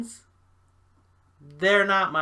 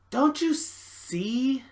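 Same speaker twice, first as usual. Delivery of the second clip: slow, higher-pitched question; slow plea; 4 semitones higher, much slower than usual. Acted. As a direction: draw out the plea to be understood. Pleading, repeats the question.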